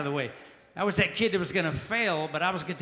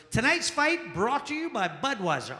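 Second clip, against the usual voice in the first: announcer voice; 4 semitones higher, slower than usual. Retold or imitated. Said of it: "The announcer goes".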